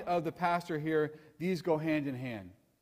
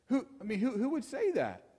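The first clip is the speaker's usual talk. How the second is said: higher-pitched, mildly incredulous protest; incredulous inner objection; 4 semitones higher, 4 dB quieter than usual. Acted. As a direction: voice a doubter's stammered objection. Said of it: "something in me goes".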